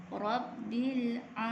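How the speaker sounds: Rabbil a with the ain vowel held two beats. Shown as a demonstration. Teacher models the two-harakat ain for students. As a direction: stretch the a slowly from the throat. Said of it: "dibaca dengan dua harakat".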